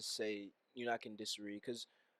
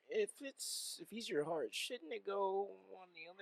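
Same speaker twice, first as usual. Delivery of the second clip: mock puzzled mom; 8 semitones higher, 3 dB quieter than usual. S1 imitating the mom.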